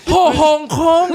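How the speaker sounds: laughing through the pun. Real, not acted. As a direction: giggle out the joke. Laughing joke on Santa.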